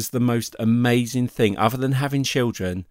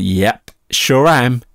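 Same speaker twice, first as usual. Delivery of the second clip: mock breezy confidence; 7 dB louder, much slower than usual. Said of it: "And I went".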